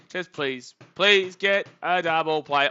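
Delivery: real loud plea; loud pleading. Real, not acted. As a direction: plead with the team, drawn out. Begging for a double play.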